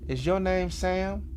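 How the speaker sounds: high, drawn-out question; high-pitched woman's voice, retold; imitated neighbor woman. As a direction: put on her voice, slow and high. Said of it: "And she says".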